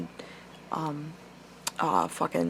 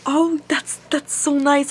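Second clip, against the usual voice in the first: high-pitched, awkwardly sweet retelling; awkward politeness; 7 semitones higher, slower than usual. Retold or imitated. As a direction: imitate a polite, lost-for-words reply. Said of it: "I didn't know what to say".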